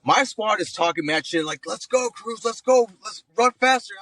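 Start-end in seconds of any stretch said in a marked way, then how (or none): 1.7-3.9 high-pitched teasing chant of hurry-up; mocking squadmates. Squad mocks him on the run: high mocking chant. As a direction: egg him on in a mocking higher voice.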